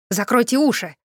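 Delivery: a mild urgent call; shouted warning. Acted. Necromancer warning the group, mildly shouted. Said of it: "выкрикнул он".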